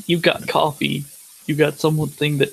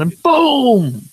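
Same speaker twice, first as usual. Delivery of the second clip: a sudden, much higher and louder "boom!"; shouted punchline; 10 semitones higher, 6 dB louder than usual. Acted. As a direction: blow the rhyme up on the last word. Punchline of a recited nursery rhyme.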